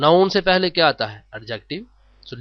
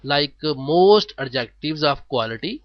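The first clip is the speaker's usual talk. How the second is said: slow dictation; much slower than usual. Shown as a demonstration. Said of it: "slow teacher read".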